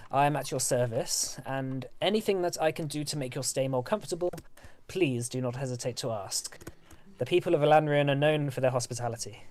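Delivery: formal host's welcome speech; lightly voiced, gracious elven governor; courteous elf lord. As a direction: welcome honored guests with measured courtesy.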